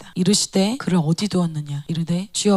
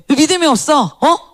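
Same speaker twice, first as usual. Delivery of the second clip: loud, raised-pitch rebuke; imitating an angry telling-off; scolding; 7 semitones higher, 7 dB louder than usual. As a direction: demand an answer like a stern scolder. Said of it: "예수님이 막 혼내는 것 같아".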